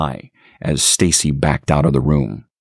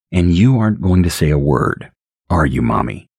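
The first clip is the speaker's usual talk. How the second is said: deep-voiced baby. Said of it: "His voice was so deep".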